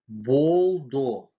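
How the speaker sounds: Болдо with a full O in both syllables; rounded second vowel. Shown as a demonstration. Teacher showing how О affects the next vowel, Болдо fully rounded. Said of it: "и он произносится как".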